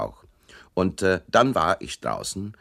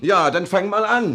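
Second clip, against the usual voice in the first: laughing taunt; 12 semitones higher, 6 dB louder than usual. Acted. Hero taunts while fighting.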